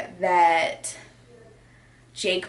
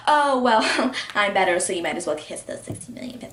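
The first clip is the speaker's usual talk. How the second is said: hammed-up boast with a laugh; mock schoolyard bragging; faster than usual. Vlogger mimicking one fighter taunting the other, mock bragging. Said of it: "fourth grade bully".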